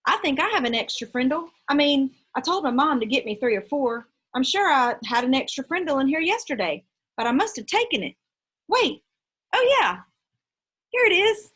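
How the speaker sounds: rising into a high, loud "here it is"; a kid putting on a show for the teacher; hammed-up schoolboy show. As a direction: overact finding it for the class. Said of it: "made a big show".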